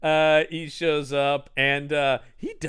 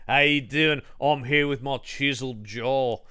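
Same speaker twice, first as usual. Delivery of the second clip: put-on American accent. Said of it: "I'm doing my American accent".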